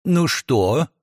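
slow, kind reassurance; gentle smile. Acted. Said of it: "я ласково улыбнулся ключнице".

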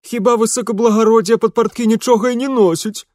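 high, loud village mockery; cheeky Ukrainian servant. A narrator's reading. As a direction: jab at him with a snicker. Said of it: "толкнул локтем ... его сотоварищ". (задиристый говор лакея)

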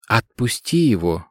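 lightly voiced calm old man. Old man in pyjamas calmly telling the girl to let go. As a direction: repeat it evenly, unbothered. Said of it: "спокойно повторил старик".

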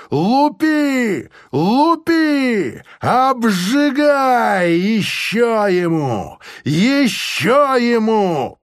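high, slow bellowed commands; gleeful shouting. Acted. Officer urging soldiers to beat harder, high slow bellow. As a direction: egg the soldiers on, relishing it.

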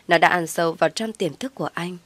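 usual speaking voice

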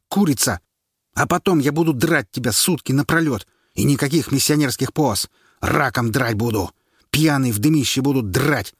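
high, loud furious yell. Acted. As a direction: bellow it at her in rage. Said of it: "заорал". (муж орёт на жену)

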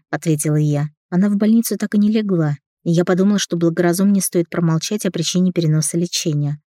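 usual speaking voice

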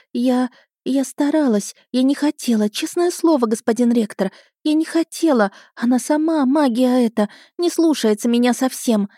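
high, tearful, breaking into sobs; sobbing. Acted. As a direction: plead like a crying little girl. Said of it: "И я разрыдалась". (рыдая, высоко)

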